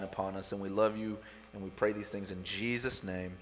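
softly spoken closing prayer. Real, not acted. Pastor praying over his church, softly prayerful. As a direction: pray quietly and earnestly, easing down.

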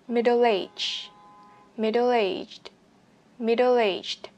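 "Middle aged" drawn out, the last D popped; final D released. Shown as a demonstration. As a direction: model "Middle aged" slowly with a clear ending. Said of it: "bật chữ D ở cuối từ này".

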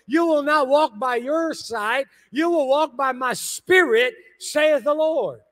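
slow, solemn preaching; preacher voicing God to the congregation, solemn. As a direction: declare it slowly as God's word. Voices God in sermon.

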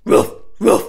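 short rough rattled "roof" bursts; rattle bark. Shown as a demonstration. Teacher demonstrates the rattle to students, rattle bark. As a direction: bark out two loud gritty rattles.

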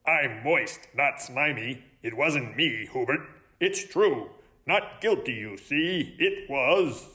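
lightly voiced frog; a hint of a croaky frog; croaking frog. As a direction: protest innocence as a frog. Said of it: "Freddie croaked".

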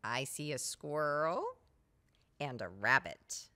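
a hint of a shy kid; small child voice. Child-like answer voice.

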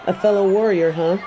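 amused, mocking echo with a laugh; laughing scoff. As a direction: laugh it back at him.

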